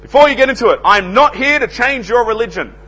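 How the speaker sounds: high, loud door-to-door pitch opener; imitating a cheery salesman's loud disclaimer; grinning announcement. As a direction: announce it brightly with a big grin, up high. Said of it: "big, broad grin".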